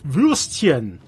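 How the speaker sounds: Würstchen said slowly in German; German word. Shown as a demonstration. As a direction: sound out Würstchen carefully, German style. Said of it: "Würstchen is German for sausage".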